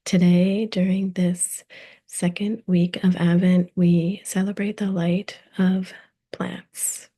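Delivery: measured, carefully phrased host welcome; scripted podcast intro. Acted. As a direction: read the introduction with deliberate pauses between phrases.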